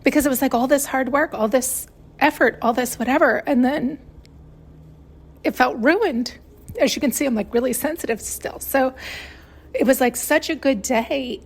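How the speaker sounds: holding back tears while telling a ruined day; choked up. Real, not acted. Telling viewers her Passover prep was ruined, choked up. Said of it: "I'm getting choked up now".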